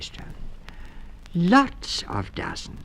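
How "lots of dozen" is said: character voice. Acted. Character voice, slow.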